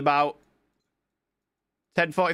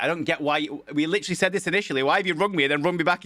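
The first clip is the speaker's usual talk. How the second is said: retold rant, higher and fast; mock exasperated complaint, pitched up and rushed; 4 semitones higher, faster than usual. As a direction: replay the moment you lost patience with the caller.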